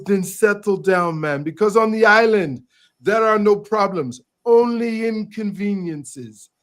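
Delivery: calm him down, lightly voiced laid-back manager; retold island manager. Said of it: "He says".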